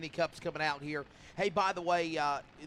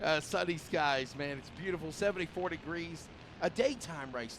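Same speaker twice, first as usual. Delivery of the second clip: announcer voice. Acted. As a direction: stretch it out like a broadcaster. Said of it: "Now you sound like an announcer".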